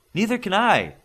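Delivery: loud high call across the tent. Acted. Stuck man calls out across the steel tent. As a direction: call out over the crowd. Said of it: "called out another man".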